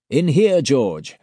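high, loud, cheery summons; jolly call-out. A narrator's reading. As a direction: call out jovially, with a chilling edge. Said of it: "in a tone of voice that one bystander described as jolly".

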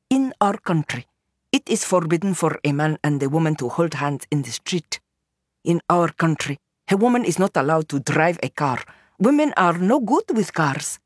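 lightly voiced woman reciting her country's rules; a hint of a character voice, laying down the rules; lightly voiced Noor. Voices Noor's speech on rules.

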